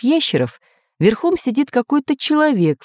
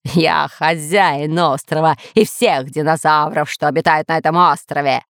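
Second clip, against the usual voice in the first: lower-pitched overlord boast; shouting villain; 4 semitones lower than usual. Acted. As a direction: proclaim ownership grandly. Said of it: "закричал человек в маске".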